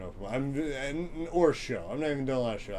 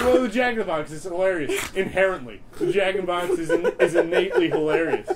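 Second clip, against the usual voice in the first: mock pompous; 6 semitones higher, 7 dB louder than usual. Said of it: "We're like".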